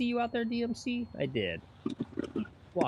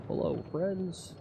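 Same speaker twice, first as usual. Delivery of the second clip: slow, higher-pitched announcer greeting; white guy announcer; 5 semitones higher, 4 dB quieter, slower than usual. Pretend. Streamer greeting viewers on announcer voice day, mock announcer. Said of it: "white guy announcer voice day".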